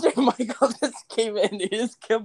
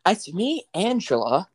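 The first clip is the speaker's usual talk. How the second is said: Angela impression; 2 semitones higher than usual. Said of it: "do Angela".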